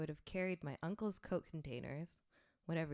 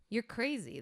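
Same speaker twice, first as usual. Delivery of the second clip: mock yell back, pitched up; retold yell; 6 semitones higher, 3 dB louder than usual. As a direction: shout it back at her. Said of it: "they yelled back".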